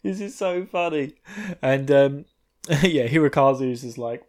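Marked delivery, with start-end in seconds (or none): 0.0-1.1 high, softer, drawn-out mock hilarity; hammed-up giggly squeal; imitated hysterical laughter. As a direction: act like you're laughing your arse off. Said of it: "She starts laughing her ass off".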